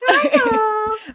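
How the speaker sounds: high-pitched mock Southern farewell; Southern accent. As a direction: imitate an over-sweet Southern goodbye. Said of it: "a Southern accent on stage".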